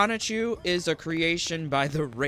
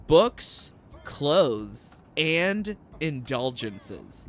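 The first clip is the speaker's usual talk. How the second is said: mocking repeat; much slower than usual. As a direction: parrot the list back with scorn. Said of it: "Like, what is that?".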